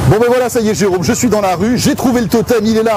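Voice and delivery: excited. Real, not acted. Back from outside, triumphant.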